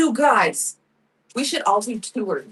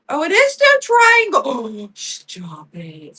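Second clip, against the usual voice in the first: high, loud squeal of sudden realization, then a gasp; real squeal of delight at a discovery; excited scream; 5 semitones higher, 5 dB louder, slower than usual. Real, not acted. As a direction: shriek with mind-blown discovery then gasp. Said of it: "Sorry, I'm screaming".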